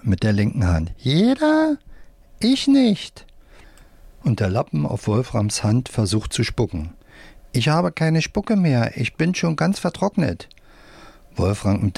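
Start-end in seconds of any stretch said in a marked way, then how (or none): 1.0-3.3 squeaky puppet voice. A narrator's reading. Left-hand puppet speaks. 7.5-10.5 whiny puppet voice. A narrator's reading. Puppet tries to spit.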